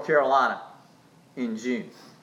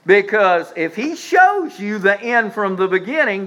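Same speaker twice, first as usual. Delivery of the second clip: preached emphasis; 2 semitones higher than usual. Shown as a demonstration. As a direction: press the point hard to the congregation. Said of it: "You're walking by sight".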